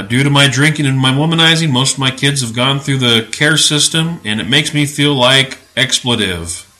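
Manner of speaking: lightly imitated southern accent. Preacher reading the father's excuse, light southern accent. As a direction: quote him with a touch of southern accent. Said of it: "he had a southern accent".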